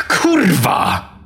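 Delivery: high-pitched cursing outburst; startled yelp of a swear word; shocked curse. A narrator's reading. Narrator's curse at priest's death.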